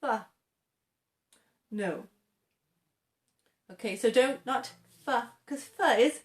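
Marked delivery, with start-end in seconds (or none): 0.0-0.3 "F" unvoiced, lips only; "F" with no buzz; F sound. Shown as a demonstration. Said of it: "But not".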